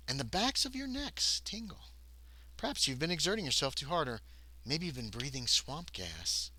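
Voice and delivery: hushed, spooky scene setting; story narration. A narrator's reading. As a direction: ease the players into dread. GM sets the swamp scene.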